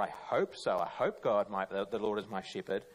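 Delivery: unsure hoping. Retold or imitated. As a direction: say it like you're not quite sure. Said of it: "there's a real confidence there".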